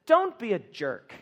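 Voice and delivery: bluntly paraphrased Paul. Retold or imitated. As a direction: say it straight, no softening. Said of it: "forgive me for sounding so blunt".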